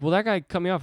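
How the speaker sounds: high, loud mock indignation; indignant excuse. Hothead defending his road rage, indignant. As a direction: protest loudly as if wronged.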